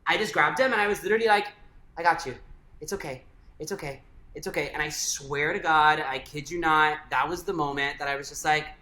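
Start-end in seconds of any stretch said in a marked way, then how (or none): 2.0-4.7 softly repeated comfort, gently re-enacted; retold reassurance. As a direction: reassure someone in tears, lightly acted. Retold comforting of crying partner.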